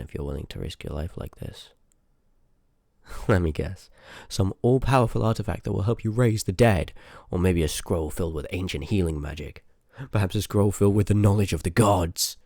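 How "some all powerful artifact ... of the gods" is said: louder, theatrical teasing; mocking guesses. Teasing the Seeker about the goal, hammed-up mockery. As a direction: ham up each wild guess to needle them.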